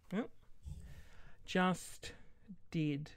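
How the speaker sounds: drawn-out, pointed thanks; passive-aggressive, slow and deliberate. Real, not acted. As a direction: answer curtly, then stretch out the thanks. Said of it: "Why did I sound so aggressive?".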